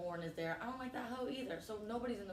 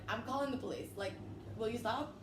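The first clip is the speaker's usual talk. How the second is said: put-on higher-pitched pleading white-girl voice; mock-threaten like a prissy white girl; white girl act; 3 semitones higher than usual. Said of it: "so I just white girl".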